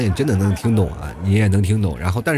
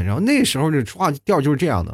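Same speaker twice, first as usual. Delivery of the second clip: ordinary delivery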